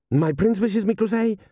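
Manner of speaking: high-pitched, urgent general's voice; anxious diplomatic interjection; interrupting general. Acted. General hurriedly interrupting the count.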